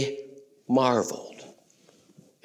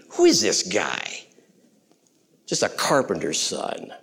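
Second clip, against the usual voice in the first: derogatory sneer. Retold or imitated. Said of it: "it's more derogatory".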